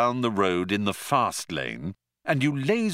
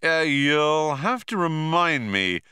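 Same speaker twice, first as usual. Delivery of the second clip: Zaphod's voice; 7 semitones higher, 3 dB louder than usual. A narrator's reading. Zaphod dodging Arthur's question, airy higher voice. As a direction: play it vague and evasive.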